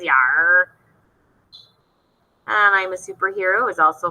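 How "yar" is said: gruff pirate growl. Pretend. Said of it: "maybe some pirate voices".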